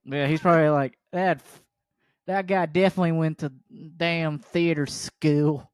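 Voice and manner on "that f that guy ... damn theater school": Southern drawl, drawn out at the end; thick Southern accent. Acted. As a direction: gripe like a Southern pickup-truck guy. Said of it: "I'm giving him a thick Southern accent".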